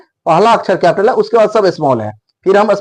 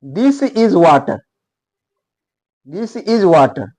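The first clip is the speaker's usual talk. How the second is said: slow model sentence; much slower than usual. Shown as a demonstration. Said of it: "यह पानी है".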